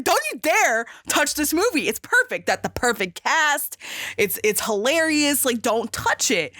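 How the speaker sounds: mildly heated, insistent warning; retold indignation. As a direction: protest like an outraged fan retelling it. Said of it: "I was pissed".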